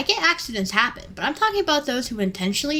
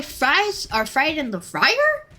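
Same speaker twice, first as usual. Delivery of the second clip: slow, higher, spelled-out disbelief; condescending; 6 semitones higher, much slower than usual. Retold or imitated. Cashier slowly explaining the broken fryer to a customer. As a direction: talk down to him like it's obvious.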